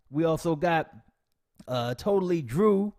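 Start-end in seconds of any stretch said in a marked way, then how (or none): none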